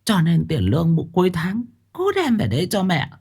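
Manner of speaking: mother sweetly asking her son for his salary; smiling mother. Acted. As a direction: smile and slip in the request. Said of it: "Bà Tháo mỉm cười".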